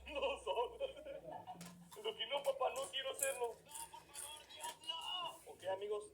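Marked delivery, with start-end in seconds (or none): 2.0-5.3 voicing the dog. Voices the dog refusing.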